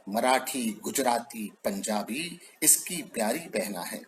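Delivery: measured, declaiming poem voice, lines repeated for weight; poem recitation. Acted. Poet recites Hindi poem to the assembled audience, declaimed.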